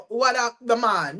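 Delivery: lightly imitated Bajan accent; imitated Barbados dialect. Imitating her friend greeting someone from Barbados, Bajan accent. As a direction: put on a playful Barbados accent. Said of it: "somebody from Barbados".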